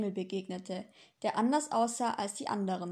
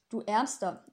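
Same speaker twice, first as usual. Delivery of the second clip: sympathetic. Acted. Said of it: "es klang so mitfühlend".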